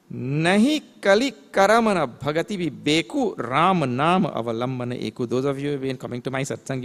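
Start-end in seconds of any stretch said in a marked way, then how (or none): 0.1-5.3 verse recitation. Shown as a demonstration. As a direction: recite the scripture line with lilting emphasis. Recites verse before chanting it.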